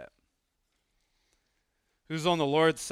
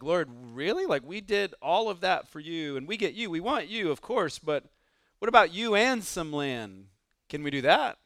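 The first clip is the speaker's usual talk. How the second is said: cheated plea; 3 semitones higher than usual. Pretend. Voicing cheated Levite.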